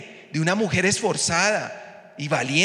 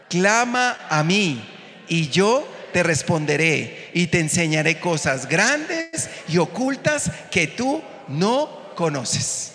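read it aloud; slower than usual. Shown as a demonstration. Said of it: "léala en voz fuerte".

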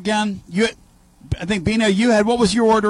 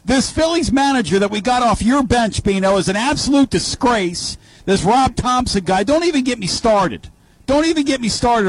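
heated promo rant, pitched up; wrestling promo; 4 semitones higher than usual. Real, not acted. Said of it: "'cause I'm gonna cut a promo".

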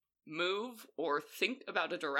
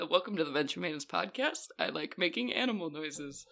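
ordinary talk, nothing marked

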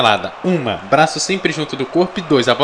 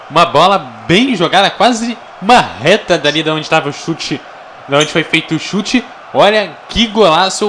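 excited analysis. Real, not acted. Co-commentator praising goal.

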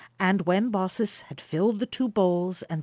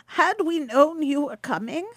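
put-on higher, apologetic old woman; old wife Baucis; 7 semitones higher than usual. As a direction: fuss over the guests like a humble housewife. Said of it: "said she".

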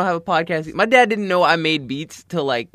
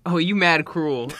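slow teasing drawl; slower than usual. Pretend. Teasing a friend, drawn out.

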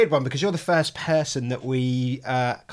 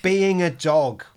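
slow announcer voice; 2 semitones higher, 5 dB louder, much slower than usual. Pretend. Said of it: "go into professional mode".

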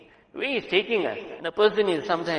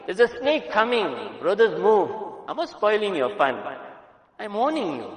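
urgent warning; 3 semitones higher than usual. Shown as a demonstration. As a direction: call out the danger plainly. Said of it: "I have to get straight to the point".

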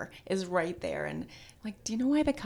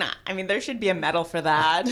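laughing; 4 dB louder, faster than usual. Real, not acted. Joking about crying while swimming.

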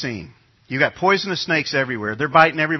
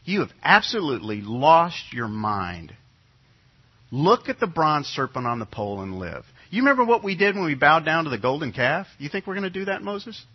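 mock scoffing. Israelite scoffing at Moses' command. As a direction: scoff as if he has lost his mind. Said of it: "what do you say?".

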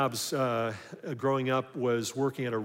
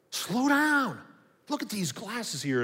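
mock boss yell; 9 semitones higher, slower than usual. Boss yelling retold.

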